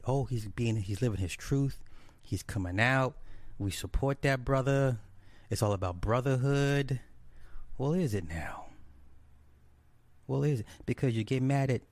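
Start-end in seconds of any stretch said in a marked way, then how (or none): 0.0-7.0 mocking quote. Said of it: "a lot of A Phi A's that's cool with it".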